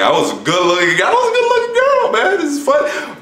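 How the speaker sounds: put-on high, playful falsetto girl voice; girly voice. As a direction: squeal it like a delighted girl. Admiring himself as woman.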